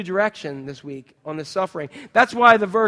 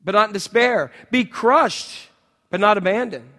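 mock slogan; 2 semitones higher, 6 dB louder than usual. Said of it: "on the billboard of your church".

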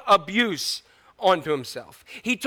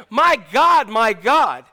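crying out; 2 semitones higher, 5 dB louder, much slower than usual. Acted. Jesus crying out to God, anguished call. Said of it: "Jesus cried out to him".

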